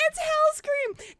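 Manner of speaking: high, slow, awed squeal; starstruck. Real, not acted. Streamer naming her idol, slow high awe. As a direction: drag out the name in disbelief.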